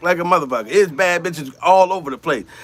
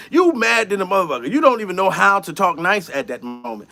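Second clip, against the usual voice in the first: ordinary talk, nothing marked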